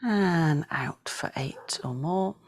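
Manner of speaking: slow, elongated breath cues; breathing guidance. Shown as a demonstration. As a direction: draw out each cue, leaving long pauses. Counts breaths in and out.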